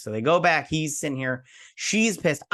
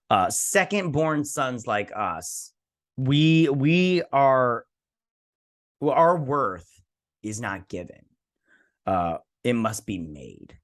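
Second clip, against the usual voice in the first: solemn lord's speech; slower than usual. Retold or imitated. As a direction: lay it down like a proud lord's creed. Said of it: "He's like, "Listen".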